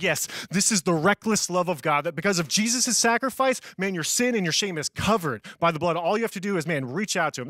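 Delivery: bold, sure preacher delivering a powerful word; confident preaching. Shown as a demonstration. Youth pastor's ideal altar call, confident preaching. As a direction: sound like the sermon you dreamed of giving. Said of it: "That's what I wanted to sound like".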